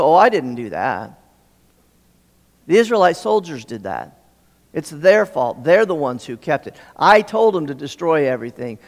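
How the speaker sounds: lightly acted excuse-making, pitch dropped; mock defensive denial. Saul blaming the soldiers to Samuel, mock defensive. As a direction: shift the blame, mildly hammed-up.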